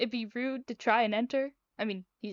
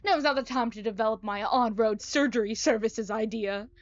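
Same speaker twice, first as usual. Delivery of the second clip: lightly voiced busy, scheming doctor; eccentric doctor; 4 dB louder than usual. Doctor invites the patient inside between ideas, lightly voiced character. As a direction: hurry the patient along with a touch of theatre.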